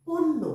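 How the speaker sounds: পণ্য said as "ponno", with a doubled n and no y sound; clear pronunciation demo. Shown as a demonstration. Teacher spelling it out for pupils, then a slow careful demo. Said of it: "মূর্ধন্য নয় জফলা".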